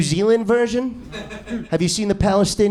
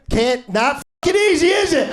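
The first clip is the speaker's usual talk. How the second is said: mock Palestinian accent; 7 semitones higher than usual. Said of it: "China in a Palestinian accent".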